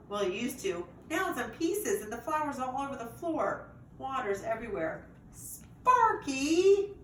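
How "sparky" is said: loud, much higher shout of the name. A narrator's reading. Owner finds the broken vase, loud high shout. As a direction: call him out sharply and loud. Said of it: "Josh shouts".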